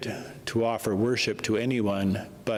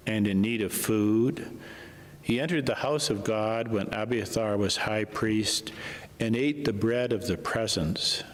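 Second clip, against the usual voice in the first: measured liturgical reading voice; gospel reading. Acted. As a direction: proclaim the scripture to the church.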